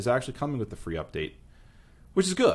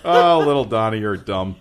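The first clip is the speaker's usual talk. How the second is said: put-on old-timey voice; 9 dB louder than usual. Continues goofy voice.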